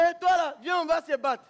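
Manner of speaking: loud challenge, come fight me; picking a fight. Retold or imitated. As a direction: shout a rough dare to fight. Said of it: "ça veut dire".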